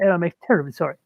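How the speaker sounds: a hint of very posh English; posh English accent. Shown as a demonstration. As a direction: apologize in a lightly put-on posh English accent. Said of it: "in a very posh English accent".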